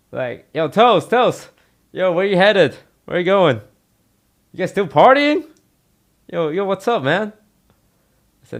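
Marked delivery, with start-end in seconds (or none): 0.5-5.5 high, loud excited party-bro voice; hyped party bro. Retold or imitated. Tarek calling at three AM, high loud hyped bro voice. 6.3-7.3 high, easy bro greeting; party bro greeting. Retold or imitated. Tarek greeting Toast on the phone, high chill bro voice.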